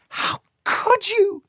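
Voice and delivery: high, slow anguished cry of a woman; shouting. A narrator's reading. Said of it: "she shouted".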